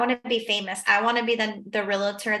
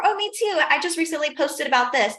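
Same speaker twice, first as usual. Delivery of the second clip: cheerful chatter; 5 semitones higher than usual. Retold or imitated. Herself voiced at open house.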